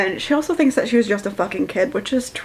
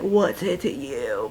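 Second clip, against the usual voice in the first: curt; 7 semitones lower, 6 dB quieter than usual. Retold or imitated. Drunk curt reply.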